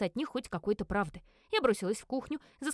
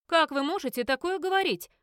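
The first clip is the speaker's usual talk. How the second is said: loud, higher horrified cry; 6 semitones higher, 6 dB louder than usual. Acted. Lidia to Chester, horrified and loud. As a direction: recoil in outrage. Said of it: "ужаснулась Лидия".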